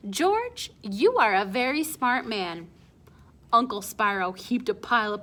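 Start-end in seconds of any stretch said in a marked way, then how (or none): 0.1-2.7 higher, chest-out pride on George; puffed-up proud quote. Acted. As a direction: savor the compliment, beaming. Father quotes the compliment.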